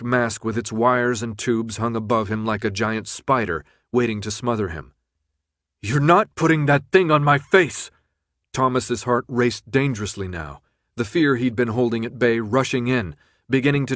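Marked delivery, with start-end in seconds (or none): 5.8-7.9 louder defiant shout; desperate shout. Acted. Thomas shouts at the guards, defiant. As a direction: refuse with everything.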